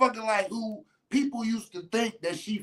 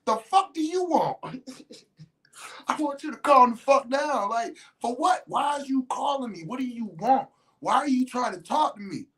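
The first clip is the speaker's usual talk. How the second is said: mock yelling girlfriend; 6 semitones higher than usual. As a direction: yell it at him, high and indignant. She yells at him, dinner invite.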